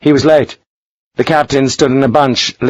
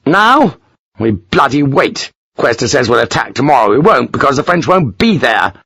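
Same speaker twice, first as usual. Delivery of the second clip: bitter resignation; 3 semitones higher than usual. Acted. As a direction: spit out the futility. Lawford deflated.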